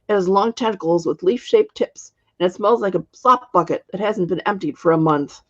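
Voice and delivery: a hint of a disgusted crone; old witch. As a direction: witch painting an ugly beast. Witch describes the monster.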